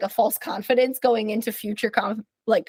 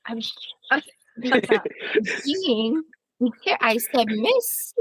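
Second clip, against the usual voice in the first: put-on drunk voice; 2 semitones higher, much slower than usual. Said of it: "You do a very good drunk voice".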